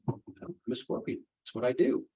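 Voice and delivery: soft, slow, hushed scorpion reply; matter-of-fact scorpion. Acted. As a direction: shrug it off quietly and slowly. Scorpion answers the dying frog.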